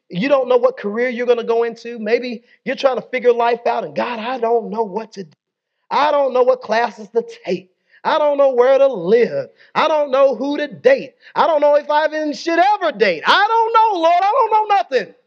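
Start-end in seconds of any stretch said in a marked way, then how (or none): 3.9-15.1 anxious student's prayer. Retold or imitated. Pastor voicing a stressed college student's rising plea to God. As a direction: play the overwhelmed student praying, pitch climbing.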